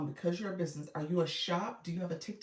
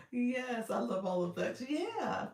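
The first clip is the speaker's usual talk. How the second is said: voice effect; 5 semitones higher than usual. Real, not acted. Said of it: "app voice effect still on".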